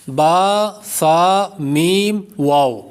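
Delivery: با، فا drawn out, formed on the lips; واو rounded, ending the slow list of lip letters. Shown as a demonstration. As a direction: hold میم long with closed lips. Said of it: "ہونٹوں سے چار حروف ادا ہوتے ہیں".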